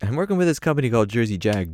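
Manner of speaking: high rocker voice; impression of a rock guitarist. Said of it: "Slash's like".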